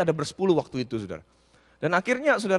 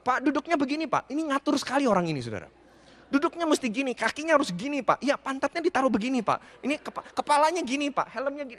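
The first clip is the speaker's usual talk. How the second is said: higher, fussy ordering voice, imitating the host; bossy instructor; 4 semitones higher than usual. Preacher mimics the bike shop owner correcting his seat. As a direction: lightly mimic a fussy coach barking posture rules.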